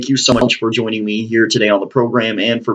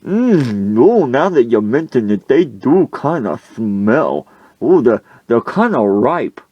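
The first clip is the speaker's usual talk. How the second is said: lightly voiced coach, drawn-out words; coach reacting to stench; 3 semitones higher, slower than usual. Coach after sniffing onions, lightly hammed-up realisation. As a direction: draw it out as the smell sinks in.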